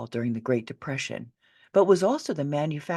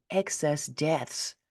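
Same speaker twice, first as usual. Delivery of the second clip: "excess deaths" drawn out slowly as a quoted term; a sceptical, slowed "excess deaths"; scare quotes; 3 dB quieter, much slower than usual. Shown as a demonstration. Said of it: "quote unquote".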